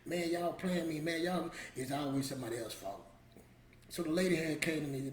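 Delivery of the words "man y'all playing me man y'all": mildly annoyed, retold complaint; getting mad. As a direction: replay a touch of blaming frustration. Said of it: "I'm getting mad".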